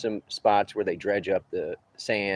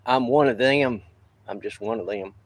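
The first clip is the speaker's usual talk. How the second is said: put-on Southern redneck accent; 3 semitones higher, 3 dB louder than usual. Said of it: "redneck camouflage around here".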